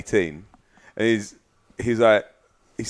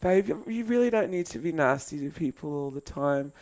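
soft, higher, gentle plea; gentle wife; 6 semitones higher, 8 dB quieter than usual. Retold or imitated. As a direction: lightly voice a gentle girlfriend coaxing him. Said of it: "she's so gentle and kind".

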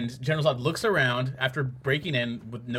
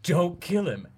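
long yelled no, then mock pleading; hammed-up movie villain, shouted then drawn out; Riddler impression; 3 semitones higher, 4 dB louder, slower than usual. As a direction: cry no, then draw out the plea. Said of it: "he goes".

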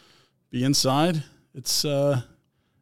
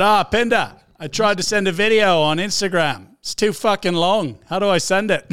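lightly imitated Aussie caller, a bit louder; slightly raised retelling of his message; Aussie Brad; 4 semitones higher, 4 dB louder than usual. Retelling Aussie Brad's message to the crew, lightly imitated. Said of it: "He said".

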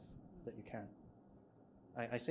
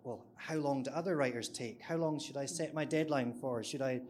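retold fluster, questions a little raised; mildly panicked; 3 semitones higher, 4 dB louder than usual. New freelancer panicking over first deadlines, lightly mimicked panic. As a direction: fire out worried questions, lightly acted. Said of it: "I was so panicked".

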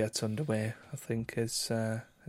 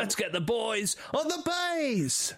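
slow, higher general Southern English voice; mock Southern English accent; 9 semitones higher, slower than usual. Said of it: "that's probably about the best I can do".

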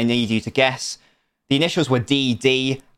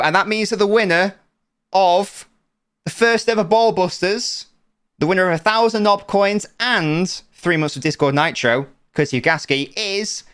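prize announcement; 6 semitones higher than usual. Pretend.

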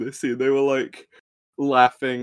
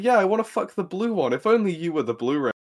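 mock Marge; 3 semitones higher, faster than usual. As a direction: rattle it off quickly as a smug teen girl. Acting out Marge's reply.

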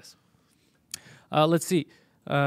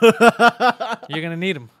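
slow, much louder mock warning, higher; loud slow joke; 6 semitones higher, 13 dB louder, much slower than usual. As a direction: draw it out big and loud. Joking punchline to co-host.

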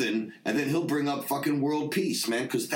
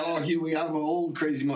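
laughing through quote; 4 semitones higher than usual. Retold or imitated. A singer's reply retold while laughing.

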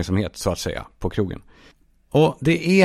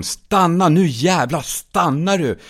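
high, angry yell; drawn-out, heated shout; screaming at her; 7 semitones higher, slower than usual. Acted. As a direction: yell furiously at someone to halt. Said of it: "jag skriker åt henne igen".

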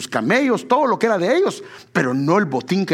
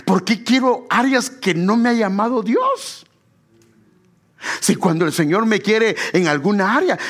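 higher-pitched, insistent preaching; pregação enfática; 5 semitones higher than usual. Real, not acted. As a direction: press the point home to the congregation. Preacher presses the point with force.

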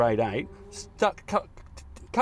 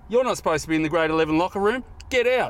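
mock stern teacher; 2 semitones higher than usual. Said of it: "he goes".

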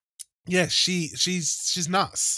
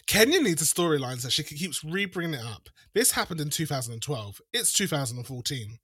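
sassy reality star read; reading someone; 3 dB louder than usual. Retold or imitated. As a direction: deliver the read with attitude. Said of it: "This is the read of verbatim".

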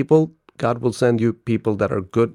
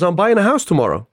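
higher-pitched mock-tearful retelling; imitated crying caller; 7 semitones higher, 3 dB louder than usual. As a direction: imitate an upset caller, lightly. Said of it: "Like, he's really crying".

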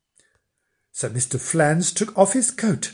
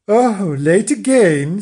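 scolding wife; 6 semitones higher, 6 dB louder, slower than usual. Acted. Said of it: "said Missus Flange".

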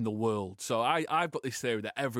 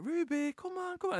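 cat voice. Shown as a demonstration. Calling his cat Ruby in his high cat voice. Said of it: "I'm like".

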